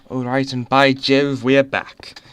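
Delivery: lightly put-on British accent; a touch of mock British on the return. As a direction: slip briefly into a hammed British voice. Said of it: "I put on a British accent".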